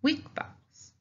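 high emphasis. Shown as a demonstration. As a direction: stress the term "weak vowels" with a high voice. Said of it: "that's why we call them".

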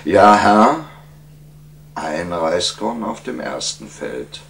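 measured, each number set off by pauses; lightly voiced sage counting out his request; wise petitioner. Wise man explaining his wish to the king, measured.

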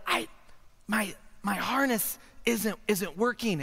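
soft but voiced, slow and halting; hesitant, hushed admission; speaking up slightly. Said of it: "You're gonna have to speak up".

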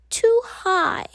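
high anxious whisper; fearful whisper. A narrator's reading. Wimberly fearing the jungle gym, whispering. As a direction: breathe it out in worry.

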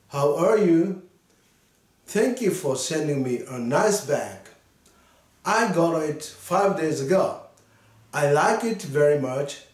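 slow, careful read-aloud for learners; slow model reading. Shown as a demonstration. Teacher reading a letter aloud to students, slow and clear. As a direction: read each English line slowly and clearly. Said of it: "まず読むので、皆さん聞いてください".

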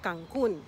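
Cancun loud, landing on COON; emphatic model "Cancun", U stressed. Shown as a demonstration. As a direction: hit the final syllable of Cancun. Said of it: "with the emphasis on the U".

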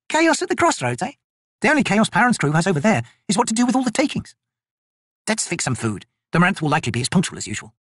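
female soldier voices. Acted. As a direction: rib your fellow soldier. Blend jokes.

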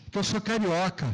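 ordinary talk, nothing marked

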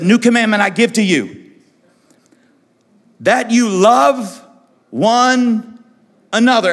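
slow rising proclamation; solemn slow proclamation. Acted. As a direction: give each word weight, slowly. Jesus proclaims new commandment.

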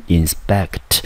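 inspect said slowly, stress on the second syllable SPECT; drawn-out inspect, leaning on SPECT. Shown as a demonstration. Teacher modeling inspect for students, slow with stress on SPECT. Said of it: "inspect重音节落在第二个音节".

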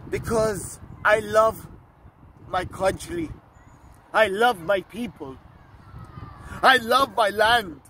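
building passion. Acted. King declaring love for country and people, building passion. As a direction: build each "love" phrase toward a ringing cry. King's plea builds to its climax.

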